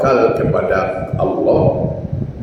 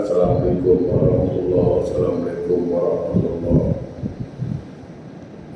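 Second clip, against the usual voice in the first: soft salam turning the head, fading away; closing prayer salam; 4 semitones lower, 6 dB quieter than usual. Shown as a demonstration. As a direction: murmur the salam ending the prayer. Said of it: "Jadi selepas salat". (salam penutup solat dengan suara perlahan)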